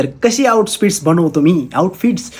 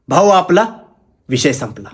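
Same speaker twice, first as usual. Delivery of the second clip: punchline delivery. Pretend. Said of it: "dialogue कसा वाटला?".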